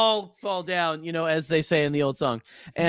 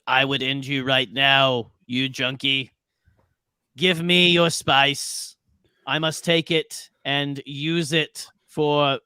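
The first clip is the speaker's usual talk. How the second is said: put-on Kiwi accent; slower than usual. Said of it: "I could do a good Kiwi accent".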